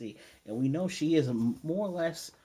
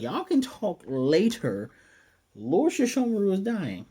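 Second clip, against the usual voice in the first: higher, louder, drawn-out urgent interruption; Jocken; 7 semitones higher, 5 dB louder than usual. Retold or imitated. Servant telling the girls his lord is dying, high and insistent. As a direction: imitate an insistent servant, pitched up and loud. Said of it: "Jock's like".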